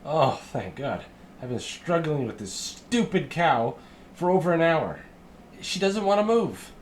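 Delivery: a frazzled little farmhand at his wits' end; exasperated halfling. Acted. Halfling complaining to helpers about the stubborn cow, high and exasperated.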